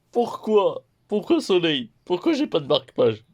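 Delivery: high, loud, exasperated why why why; mock outrage. Real, not acted. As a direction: complain to the publisher, half-joking. Complains missing bookmark from publisher.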